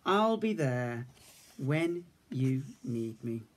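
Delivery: slow and gentle; Big Bear reassuring the cub; tender promise. Acted.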